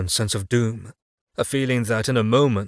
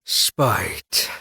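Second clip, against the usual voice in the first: smiling; 2 semitones lower than usual. A narrator's reading. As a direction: let a grim smile show. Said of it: "hear the smile in the man's voice".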